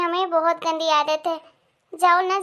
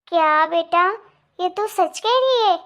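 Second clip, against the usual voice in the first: amazed disbelief. Acted. Mother amazed at the news.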